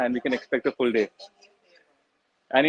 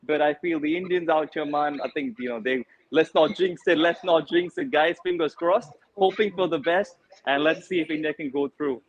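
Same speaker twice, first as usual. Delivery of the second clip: put-on light Caribbean lilt, West Indian accent; easygoing West Indian accent, laughing in. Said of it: "Great work on that accent".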